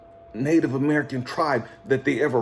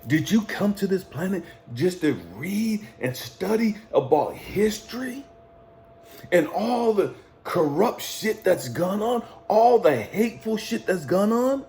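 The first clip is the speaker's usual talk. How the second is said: impassioned preaching mentor; 5 semitones higher than usual. Retold or imitated. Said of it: "And then he said".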